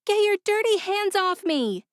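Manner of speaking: high, loud furious yell. A narrator's reading. Ella pinned down yelling at the men to let go. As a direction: shout them off you, full force. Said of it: "Ella yelled".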